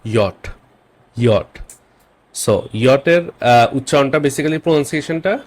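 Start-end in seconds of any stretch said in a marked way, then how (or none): 0.0-1.6 ইয়ট said 'yot', with a Y sound; name J as ইয়ট, 'yot', not 'jay'; German J. Shown as a demonstration. Teacher tells learners the German J, ইয়ট as 'yot'. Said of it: "জে কে আমরা জার্মানে বলি".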